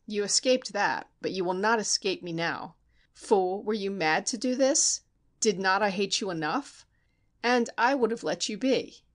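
a hint of a murderer building to the strike; murderous Steinmetz. Steinmetz confesses and attacks.

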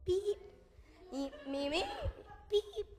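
mock jeer. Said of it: "me empezaban a gritar".

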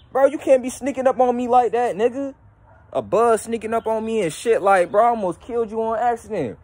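high-pitched, indignant surprise; rattled after startle. Real, not acted. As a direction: scold the intruder, still startled. Rattled after being startled by a bug.

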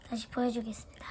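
soft whispered aside; whispering. Real, not acted. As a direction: breathe it as an aside. Aside while swapping parts.

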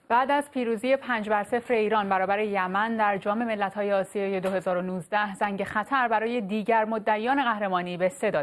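steady formal news read; measured broadcast delivery; iranian newsreader. Real, not acted. Anchor reads sports news intro.

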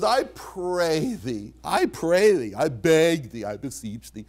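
drawn-out, earnest entreaty dropping away at the end; affectionate pleading. Retold or imitated. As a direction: plead with affection, stretching the first plea, hushing the last. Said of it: "they're words of affection".

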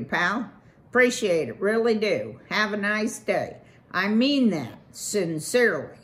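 loud, fast-talking swaggering beaver; brash beaver boss. Acted. Beaver boss brags to Valerian about his pond, brash loud pitch. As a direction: sell it like a pushy developer.

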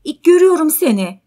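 high, loud, alarmed cry; frightened. Acted. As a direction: blurt it out in fear. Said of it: "Kadın korkarak ayağa kalkar".

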